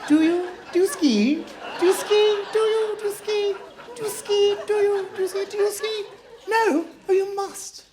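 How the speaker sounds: hammed-up upper-class snob, nose in the air; posh snob. Comic mocks a posh partygoer with a high plummy voice. Mocking posh ski question.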